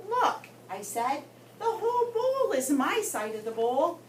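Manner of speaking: put-on lively read-aloud voice for children; story narration. A narrator's reading. Teacher reading aloud to her class, lively storytelling. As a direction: tell the goldfish diary to the class.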